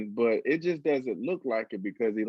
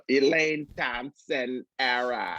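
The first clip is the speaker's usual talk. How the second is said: put-on Jamaican accent; slower than usual. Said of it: "Is that your Jamaican accent?".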